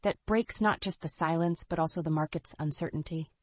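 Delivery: upbeat retro commercial read; chipper 1950s ad. Acted. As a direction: sell it like an old TV ad. Podcast ad segment.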